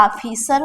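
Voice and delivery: ऑफिसर slowly as 'AA-phee-sar'; wrong aa vowel. Shown as a demonstration. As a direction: stretch ऑफिसर with an initial long aa. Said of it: "ये सही है क्या? नहीं".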